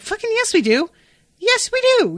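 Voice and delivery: the dog yells its insistence; insistent yell. Acted. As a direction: shout it down, no arguing.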